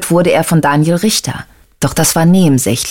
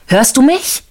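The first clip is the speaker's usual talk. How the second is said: mock yell into phone; 9 semitones higher than usual. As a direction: call out the question over a bad line. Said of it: "brüllte er". (hochgerufene Frage ins rauschende Telefon)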